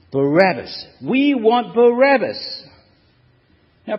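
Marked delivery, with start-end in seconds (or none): 0.1-2.6 loud, high scream of "Barabbas!"; crowd screaming. Acted. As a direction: scream it like a mob demanding. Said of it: "they scream out".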